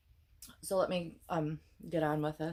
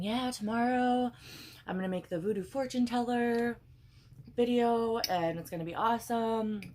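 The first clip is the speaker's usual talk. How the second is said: eager self-talk; 6 semitones higher than usual. Retold or imitated. Telling herself the night before, eager and high. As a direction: sell yourself on tomorrow's big idea. Excited plan quoted to herself.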